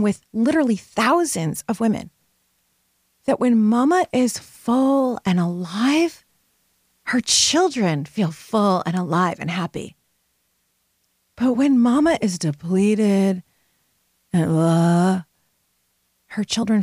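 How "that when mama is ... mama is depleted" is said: mama drawn out slowly with a lift; slow down and lean on mama; earnest coaching emphasis on mama; stress on mama. Real, not acted.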